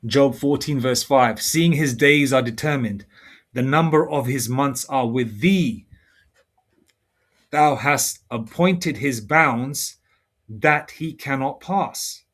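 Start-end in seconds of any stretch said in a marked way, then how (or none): 1.4-12.2 very slow, measured scripture reading; weighty, spaced-out Bible recitation. Acted. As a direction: read the verse out deliberately, phrase by phrase. Reads scripture aloud.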